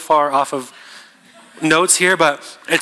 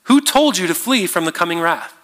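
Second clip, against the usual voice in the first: shocked rebuke; 4 semitones higher than usual. Retold or imitated. John the Baptist to the crowd seeking baptism, shocked. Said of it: "he's shocked".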